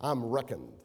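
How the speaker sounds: light Southern US drawl; playful touch of southern drawl; little southern drawl. Shown as a demonstration. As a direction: lean lightly into a southern twang. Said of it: "say it with a little southern drawl".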